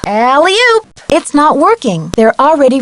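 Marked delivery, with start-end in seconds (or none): 0.1-0.9 high, strained hoisting call; straining with physical effort; effortful heave. Acted. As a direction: heave yourself up as you say it. Character heaves or jumps with effort.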